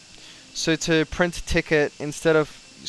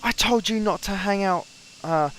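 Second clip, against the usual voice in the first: raised, pitched-up imitation of a ranting boss; mock screaming manager; 5 semitones higher than usual. Imitating the cranky manager yelling at him over a ticket. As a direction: ham up the cranky supervisor's telling-off. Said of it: "He's screaming at me".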